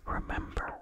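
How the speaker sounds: a low hushed whisper of warning. Acted. Narrator warning the rector beside him, in a whisper. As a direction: breathe the word as a caution. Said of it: "whispered a warning".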